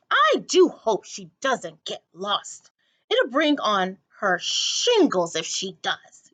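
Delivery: put-on slow fretting old lady. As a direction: fret slowly like an old lady. Miss Forcible's voice.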